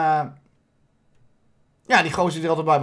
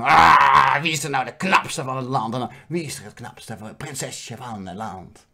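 lower, fading whiny question; mock princess whine; 6 semitones lower than usual. Princess asks the mirror once more, a touch of sulk. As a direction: sulkily ask the mirror again. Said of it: "Zo van".

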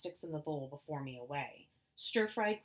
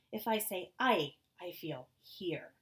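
put-on Chinese accent; 2 semitones higher, 3 dB louder, slower than usual. Mother explains, slow.

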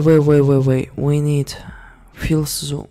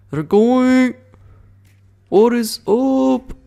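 surprised; 10 semitones higher, 8 dB louder, slower than usual. Real, not acted. Surprised by enemies moving.

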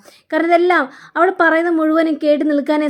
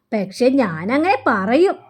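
slow, drawn-out teasing warning with swooping pitch; teasing threat; slower than usual. Retold or imitated. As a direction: draw it out like a mock threat to a child. Grandmother playfully threatens to tell.

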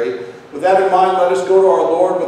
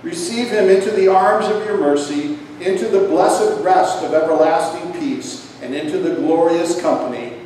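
prayer; 2 semitones higher than usual. Acted. Commendation prayer.

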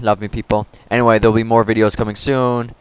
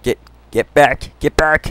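frantic yell; 5 semitones higher, 5 dB louder than usual. Real, not acted. Fending off a creeper.

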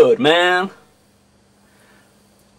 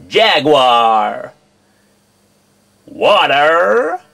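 American accent; much slower than usual. Shown as a demonstration. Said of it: "read out a bunch of words in my American accent".

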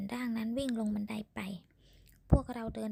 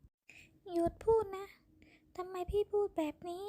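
anguished plea; 9 semitones higher, slower than usual. A narrator's reading. Woman begging him to stop.

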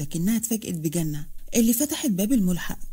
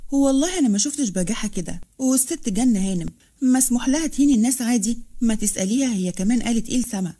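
angry voice. Acted. Farah angrily defends her sister, raised voice. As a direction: hit back hard in anger. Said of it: "صوتها الغاضب".

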